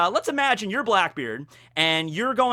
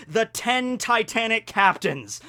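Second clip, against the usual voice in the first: slow, slightly raised announcement; dramatic name reveal; 4 semitones higher, slower than usual. Shown as a demonstration. Fan reveals the villain crew's alliterative name, slow and dramatic. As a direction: stretch out the crew's grand title.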